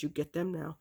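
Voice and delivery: a hint of a mother's no-nonsense order; stern mother. Mother ordering her child to fetch the pills, sternly. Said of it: "she was not playing".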